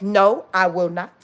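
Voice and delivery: low, slow, firm refusal; said with chest. Shown as a demonstration. Showing listeners how to refuse, firm from the chest. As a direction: plant each word firmly, from the chest. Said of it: "I say it with my chest".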